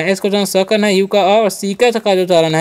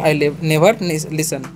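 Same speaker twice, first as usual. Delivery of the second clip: very slow, broken into pieces; slow syllable by syllable; 5 semitones lower, 4 dB quieter, much slower than usual. Shown as a demonstration. Teacher modelling the right way for students, very slow and broken into pieces. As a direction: spell out each sound slowly as a model. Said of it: "तो ऐसे बोलना है".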